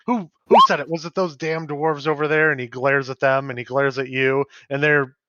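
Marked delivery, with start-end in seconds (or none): 0.1-2.5 angry bartender. Acted. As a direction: shout it round the tavern. Bartender hunts the prankster.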